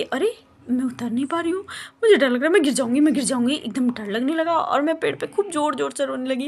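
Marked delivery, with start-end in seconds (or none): 0.0-3.5 mock panic. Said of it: "डर लगे".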